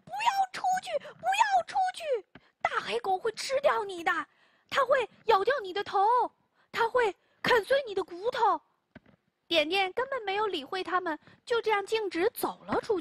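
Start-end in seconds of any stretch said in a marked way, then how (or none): 0.0-8.6 much higher, panicked pleading cry; frightened screams. Acted. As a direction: shriek in terror to stop him. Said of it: "大家惊叫道". (惊恐地尖叫)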